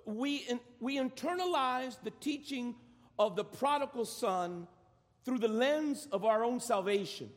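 deliberate, phrase by phrase with pauses; measured, spaced-out teaching delivery; very slowly. Real, not acted. Preacher spelling out the teaching to the congregation, very slowly. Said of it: "Let me say that very slowly".

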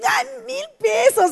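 high, drawn-out dismissive "ay"; no big deal. Retold or imitated. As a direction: make light of it in a high, slow lilt. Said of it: "¿sí entiendes el tono?".

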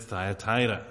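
"Thyatira" said as thigh-a-TIE-ra; habitual pronunciation. Shown as a demonstration. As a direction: open "Thyatira" with a "thigh" sound. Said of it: "I've always pronounced it".

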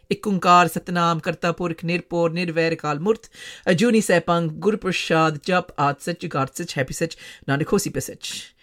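rapid rote recitation of a Sikh prayer. Shown as a demonstration. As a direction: rattle off the mantra by heart. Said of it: "How do I know it so perfectly".

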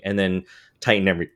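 talking through the hiccups. Real, not acted. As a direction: voice catching on a hiccup. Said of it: "I got the hiccups".

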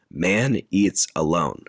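slow, measured stage announcement; announcer. Retold or imitated. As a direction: lightly imitate someone announcing an act. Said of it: "Olivia Colman announces".

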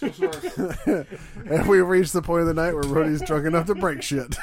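high, amused announcement through laughter; laughing. Real, not acted. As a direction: talk while cracking up. Laughing at drunk friend breaking things.

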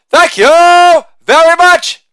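high, slow thank you in a famous singer's style. Acted. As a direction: drawl it like a famous singer. Famous-singer-style sign-off.

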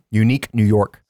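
tongue twister Unique New York, crisply enunciated; crisp vocal warm-up on Unique New York; prim precise elocution. Shown as a demonstration. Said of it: "Some different energy".

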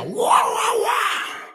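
high wailing "wah" cries, shouted; mock demon scream. Preacher imitates demons manifesting, high shrieking wails. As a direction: wail like a possessed person screaming. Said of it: "Starting to scream when they sit here".

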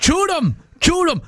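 high Cajun yelp of a catchphrase; hammed-up Louisiana bayou accent, pitched high; Cajun hunter accent. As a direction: bark it like a swamp gator hunter, high up. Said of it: "stopping the accent".

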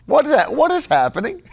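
baffled disbelief; what on earth; incredulous. Real, not acted. Incredulous preacher.

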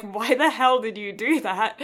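put-on indignant child. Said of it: "I'm like".

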